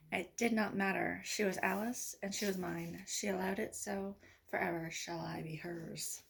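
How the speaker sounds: measured love poem recital, phrase by phrase; poem reading. Acted. Poet reads love poems for Valentine's, measured recital. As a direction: read it as verse, pausing between lines.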